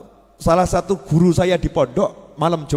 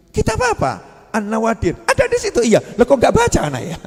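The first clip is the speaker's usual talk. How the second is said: surprised teacher; 6 semitones higher than usual. Retold or imitated. Teacher questioning student, retold.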